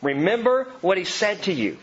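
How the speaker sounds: "Remember what he said to you" as a firm statement, no questioning rise; "Remember what he said to you" told as fact, not asked. Acted. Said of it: "They said it as a statement".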